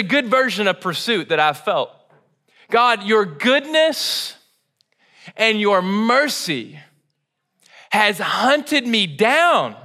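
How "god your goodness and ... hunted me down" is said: slow earnest prayer. Retold or imitated. David praying, drawn out.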